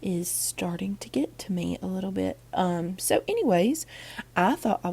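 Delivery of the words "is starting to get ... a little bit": sick, groggy morning voice. Real, not acted. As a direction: talk like you're under the weather. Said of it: "sorry about my groggy voice".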